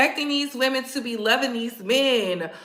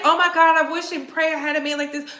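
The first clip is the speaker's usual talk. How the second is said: swooning fan; 4 semitones higher, faster than usual. Retold or imitated. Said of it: "y'all be like".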